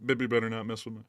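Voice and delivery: lightly voiced Netanyahu impression, low; low mock leader growl; a hint of a gruff prime minister; Bibi voice. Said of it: "go through the script with the whole Bibby thing".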